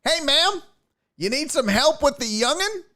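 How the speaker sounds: put-on high, folksy old man voice; creepy dad voice. Dad offering the mother help, high folksy voice. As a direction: play the pushy helpful dad. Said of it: "this dude goes".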